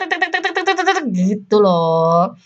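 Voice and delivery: rapid tek-tek. Shown as a demonstration. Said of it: "Kayak langsung pengen tek".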